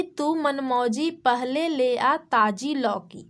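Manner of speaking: put-on slow sing-song reading of a children's rhyme; rhyme recitation. Shown as a demonstration. Teacher to kids, reciting the rhyme slowly. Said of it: "तो मौसी बोली".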